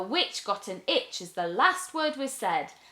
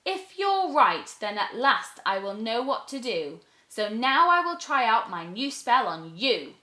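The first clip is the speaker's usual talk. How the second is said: hopeful witch; 2 semitones higher than usual. Acted. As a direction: try it with new hope.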